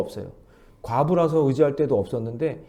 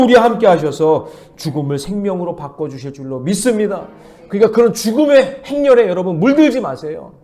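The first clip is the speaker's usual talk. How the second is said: louder, higher proclamation; full-force preaching; 6 semitones higher, 9 dB louder than usual. Acted. Pastor rallying the church against despair, loud and high. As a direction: declare it boldly over the congregation.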